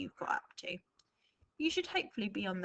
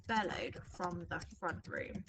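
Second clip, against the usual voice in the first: slow dictation; 3 semitones lower than usual. Shown as a demonstration. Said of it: "no, we're gonna have".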